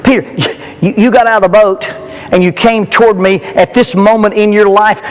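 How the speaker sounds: a loving Jesus half-laughing at Peter; Jesus reassuring a sinking Peter, lightly voiced; Jesus speaking to Peter.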